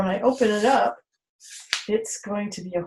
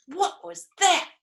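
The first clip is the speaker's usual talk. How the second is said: mock surprise; 9 semitones higher than usual. Playful surprise for children.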